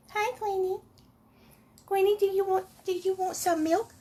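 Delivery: high sing-song voice for the cat; pet talk. Real, not acted. Woman coaxing her cat Gwenny, high baby talk. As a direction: coo up high at the kitchen cat.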